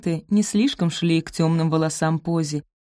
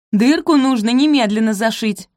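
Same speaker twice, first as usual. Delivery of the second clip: sharp higher order; commanding; 6 semitones higher, 6 dB louder than usual. Acted. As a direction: snap out the demand. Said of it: "приказала Розамунд, недовольно фыркнув".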